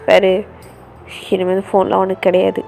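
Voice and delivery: low, loud telling-off; angry brother on the phone. Acted. Brother scolding his sister's friends over the phone, low and angry. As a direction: warn the friends off, fast and firm.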